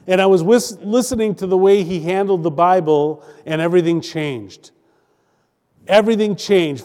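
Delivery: deliberate phrases with weighted pauses; preached testimony reading. A narrator's reading. Preacher reading a testimony to the congregation, in measured pulpit delivery. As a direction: read it out as pulpit oratory.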